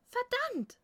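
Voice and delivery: sharp, loud, high-pitched curse in the dark; panting curse. A narrator's reading. Fighter cursing at a missed blow, loud snorting curse. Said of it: "schnaufte eine Stimme".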